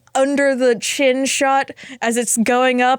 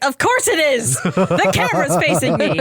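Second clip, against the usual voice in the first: retold exasperated retort; 3 semitones higher than usual. Patient answering the doctor about the camera, exasperated. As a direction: state the obvious back, put out.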